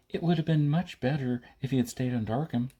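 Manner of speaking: lightly voiced young woman; girl's voice. Girl voiced in narration.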